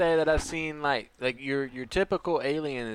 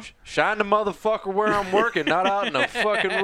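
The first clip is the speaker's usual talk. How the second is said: retold angry order; 5 semitones higher, 5 dB louder than usual. Quoting father's order.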